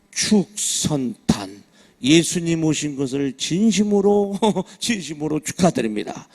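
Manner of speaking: slow, loud ceremonial reading; banner read-out. Retold or imitated. Preacher reading a temple's Christmas banner aloud, slow proclamation. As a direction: announce it grandly, word by word.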